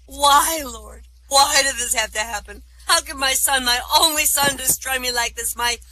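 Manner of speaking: high-pitched, hammed-up anguished lament; sobbing rabbi. Rabbi lamenting his son to God, hammed-up high wail. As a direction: wail it to heaven in mock despair. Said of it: "sobs are heaving him".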